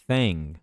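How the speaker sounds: "thing" with the TH, tongue between the teeth. Shown as a demonstration. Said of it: "língua entre os dentes". ("thing" com a língua entre os dentes)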